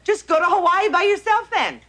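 high-pitched, indignant outburst that drops away; spiteful, huffy send-off; angry parting shot. Acted. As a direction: hurl it like the last word in a quarrel. Angry quarrel over Hawaii trip.

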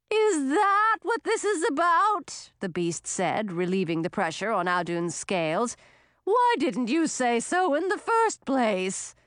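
a bewildered sea monster, drawn out; sea serpent. Acted.

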